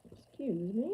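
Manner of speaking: after a small burp; burping slightly; with heartburn. Real, not acted. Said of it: "I tend to have hiccups, heartburn, and the burps".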